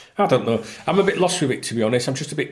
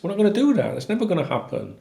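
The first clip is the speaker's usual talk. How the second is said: real indignant insistence; emphatic insistence; 9 semitones higher, faster than usual. Real, not acted. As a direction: shut the idea down. Insisting against journalists.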